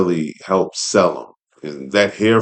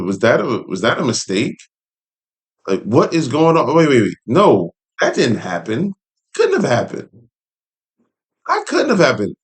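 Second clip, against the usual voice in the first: rising, higher-pitched flustered disbelief, climbing much higher at the end; stunned disbelief; 5 semitones higher than usual. Retold or imitated. Fan reliving a shocking three count, in stunned disbelief. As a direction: replay the shock of a result you can't accept. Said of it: "I said".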